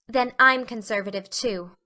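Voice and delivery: firm, lightly voiced girl; decidedly. Anne siding with Matthew in politics, decided voice. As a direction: declare it with decision. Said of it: "said Anne decidedly".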